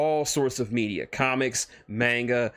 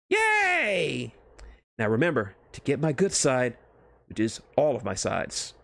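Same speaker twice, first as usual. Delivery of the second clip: celebrate, then preen; giddy Deadpool. Acted. Deadpool celebrating his introduction, giddy then vain.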